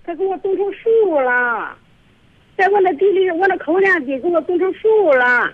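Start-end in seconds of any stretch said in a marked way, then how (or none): 0.0-1.8 slowed down, spelling it out for the host; slow clarifying repeat. Real, not acted. To a host who missed it, slow clear repeat. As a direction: repeat it slowly so the host catches it. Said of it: "啥？".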